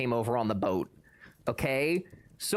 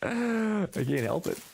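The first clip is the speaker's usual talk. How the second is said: mock-helpless sigh; 7 semitones higher, slower than usual. Real, not acted.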